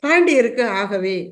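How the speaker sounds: slow, drawn-out recital of the verse; go slowly. Acted. Saint sending the fire slowly to the king, slow. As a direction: stretch the words out slowly. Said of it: "மெதுவா போ".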